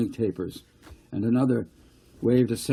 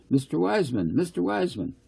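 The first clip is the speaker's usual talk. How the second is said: calling out; 8 semitones higher than usual. Acted. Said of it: "He called to him, running as he did".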